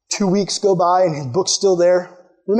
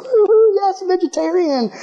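high, whooping imitation of a delighted cheer; mock celebration; 13 semitones higher than usual. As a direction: draw out a playful victory cheer, slowly. Imitates Mallory cheering at the news.

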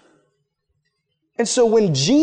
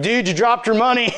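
grudging call-out; 4 semitones higher than usual. Retold or imitated. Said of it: "didn't say it in a very loving way".

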